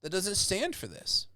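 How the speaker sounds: rally a crowd against injustice; passionate indignation. Shown as a demonstration. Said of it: "a good orator could make that happen and say".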